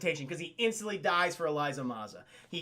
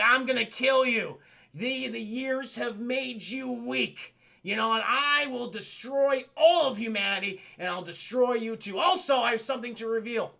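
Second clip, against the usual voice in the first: raised, emphatic mock-villain vow; villainous threat; 5 semitones higher, 4 dB louder than usual. Betrayer threatening Goliath with a bazooka, menacing. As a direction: declaim it like a vengeful villain.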